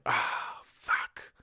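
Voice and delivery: whispered sigh of regret; regretful whisper. Acted. Realizing you said something you don't mean, regretful whisper. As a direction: let it out under your breath, voiceless.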